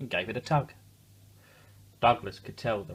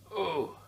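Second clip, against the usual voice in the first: grunt; 8 semitones higher than usual. A narrator's reading. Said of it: "grunted Douglas".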